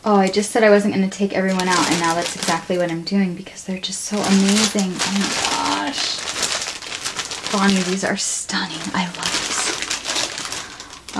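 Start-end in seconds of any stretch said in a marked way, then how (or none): 1.9-11.2 awed soft whisper. Real, not acted. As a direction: breathe the thanks in a hush. Admiring the laces.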